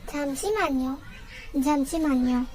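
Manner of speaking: "잠시만요" said carefully as jam-shi-man-yo; pronunciation demo. Shown as a demonstration. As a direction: model "잠시만요" for learners, pausing between repeats. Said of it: "teach you how to pronounce it".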